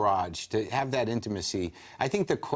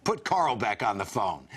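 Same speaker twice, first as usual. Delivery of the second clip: slow, raised imitation on the phone; Mel Brooks; 4 semitones higher than usual. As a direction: concede slowly, then drop to a curt order. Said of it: "He's like".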